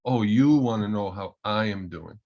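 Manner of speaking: imitated Russian accent, lightly done. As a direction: retell it as a Russian colleague would say it, accent and all. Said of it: "in a very thick Russian accent".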